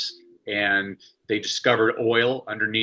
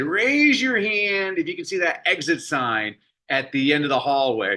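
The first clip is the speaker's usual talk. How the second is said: lightly voiced teacher, a bit higher and bright with purpose; teacher addressing class; 5 semitones higher than usual. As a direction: call the class like a lively schoolteacher.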